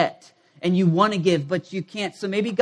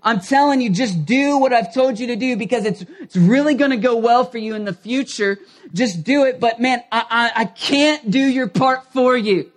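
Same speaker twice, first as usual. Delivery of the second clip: higher, louder, urging fatherly voice; voicing God as coach; 3 semitones higher, 4 dB louder than usual. God urging people to do their part, higher earnest plea. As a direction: plead like a coach who can't play for them. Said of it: "God look at our lives and ... go".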